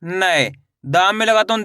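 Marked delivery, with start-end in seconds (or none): 0.0-0.5 "नै" drawn out, falling in pitch; ai-matra demonstration. Shown as a demonstration. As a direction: model "नै" as one syllable with ai. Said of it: "ना को किसे पढ़ेंगे?". ("नै" का खींचकर उच्चारण, गिरते सुर में)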